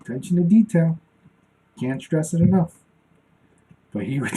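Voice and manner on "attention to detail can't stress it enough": drill sergeant motto. Retold or imitated. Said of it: "I hear his voice in my head".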